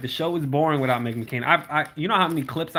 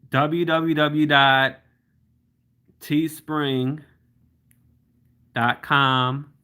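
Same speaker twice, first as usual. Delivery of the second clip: slow dictation; much slower than usual. Shown as a demonstration. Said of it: "type in".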